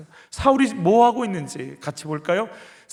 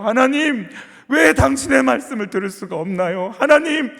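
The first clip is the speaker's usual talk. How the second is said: rising cry to God; 4 semitones higher, 3 dB louder than usual. Shown as a demonstration. Prayer climbing to a cry.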